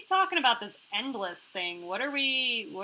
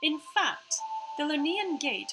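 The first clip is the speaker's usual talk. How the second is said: lifted part-Australian hologram voice; Iris; 4 semitones higher than usual. Acted. Hologram explains the gate to players, part-Australian Iris voice. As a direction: explain precisely with a slight Australian put-on accent.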